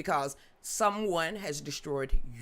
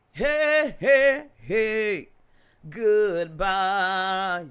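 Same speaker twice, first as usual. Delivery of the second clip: louder playful call-out; loud greeting; 7 dB louder, much slower than usual. Real, not acted. Waving off her live viewers with a loud cheerful call. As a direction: shout a cheerful bye to the chat.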